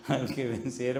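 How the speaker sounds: chuckling through the phrase; laughing repeat. Real, not acted. Preacher laughs while repeating his sermon phrase, amused. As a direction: let the laugh spill over it. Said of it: "Y me río".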